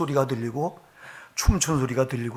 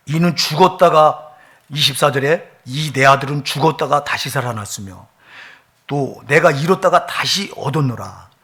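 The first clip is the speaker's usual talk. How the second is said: proclaimed loud; 7 dB louder than usual. Acted. Quotes father's joyful words.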